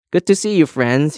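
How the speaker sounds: high, loud hearty welcome; beaming cry. A narrator's reading. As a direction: greet friends with a big smile in the voice. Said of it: "he cried, beaming".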